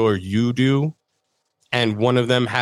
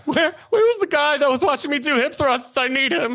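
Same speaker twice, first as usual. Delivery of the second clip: squeaky high laughing voice; high laughing plea. Real, not acted. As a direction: plead through laughter.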